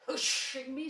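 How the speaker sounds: loud, high, incredulous echo; surprised. A narrator's reading. Eeyore answering the claim he was hushed, surprised. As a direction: repeat it in loud disbelief, pitched right up. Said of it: "said Eeyore in surprise".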